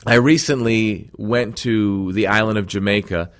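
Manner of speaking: ordinary talk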